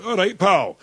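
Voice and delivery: high, loud Black Country greeting; a shopkeeper's Black Country hello; Black Country accent. Retold or imitated. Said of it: "taken on the local accent".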